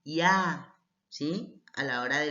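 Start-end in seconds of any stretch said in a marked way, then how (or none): 0.0-0.7 "Ya" said as one syllable; one blended sound on "Ya", no break; vowels joined. Shown as a demonstration. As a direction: run the y and the a together in "Ya". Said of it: "una sola sílaba y así leemos".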